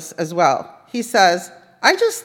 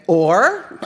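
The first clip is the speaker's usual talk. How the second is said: infuriating or; 4 dB louder than usual. Retold or imitated. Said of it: "and then infuriatingly say".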